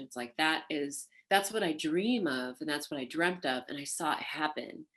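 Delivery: ordinary talk, nothing marked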